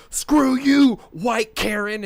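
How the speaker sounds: high mocking shout; defiant yell. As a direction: fling it out, loud and high. Mocking Guillermo's defiant movie line.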